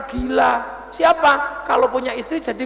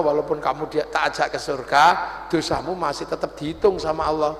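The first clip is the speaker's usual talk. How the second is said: voice of God; 11 semitones lower, 4 dB quieter than usual. Acted. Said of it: "kata Allah".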